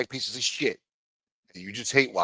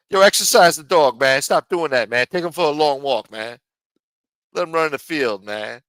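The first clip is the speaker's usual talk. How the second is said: loud scolding, higher and much louder; calling out; 3 semitones higher, 8 dB louder than usual. Real, not acted. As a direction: yell at the owner to walk the dog. Scolding dog owner on stream.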